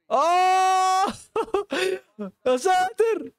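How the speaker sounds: very high, slow laughing exclamation; high drawn-out laughing ah; laughing cry. Real, not acted. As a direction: howl with laughter at the error. Big reaction to blunder.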